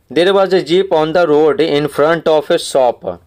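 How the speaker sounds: very slow, every word spaced out for the class; slow read-aloud. Shown as a demonstration. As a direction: read the line slowly so pupils can follow. Teacher reads story passage slowly.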